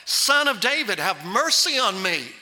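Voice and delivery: preacher's emphatic beggar's cry. Acted. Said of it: "he cried out all the more".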